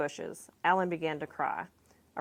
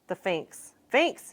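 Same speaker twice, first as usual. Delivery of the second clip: yelling at the top of his voice; 2 semitones higher, 4 dB louder, much slower than usual. A narrator's reading. A boy lunging at the window, yelling at the neighbours. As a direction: build from a call into a full yell. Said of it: "he yelled at the top of his voice".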